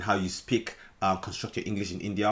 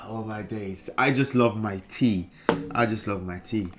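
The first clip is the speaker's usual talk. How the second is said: put-on British accent; 3 semitones lower than usual. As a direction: savour the tea like a Brit. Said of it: "Beautiful British English".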